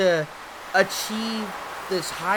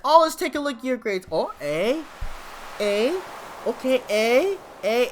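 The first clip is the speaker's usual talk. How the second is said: mock fresh-off-the-boat Asian accent, higher and fast; fob accent; 6 semitones higher than usual. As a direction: imitate an Asian parent checking grades in a fob accent. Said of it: "the fob accent".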